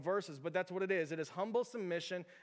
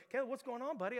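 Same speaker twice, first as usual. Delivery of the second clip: put-on higher-pitched, tender check on a child; concerned dad; 7 semitones higher than usual. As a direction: gently ask an upset kid. Dad soothing crying child.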